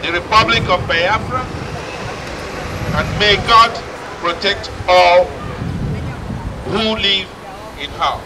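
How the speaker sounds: solemn, deliberate declaration read aloud; formal proclamation speech. Acted. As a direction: proclaim it like a head of state. Reads the Biafran declaration aloud.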